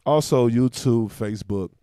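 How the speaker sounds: slow, careful listing. Real, not acted. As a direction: spell out each name slowly. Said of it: "Slow down, slow down".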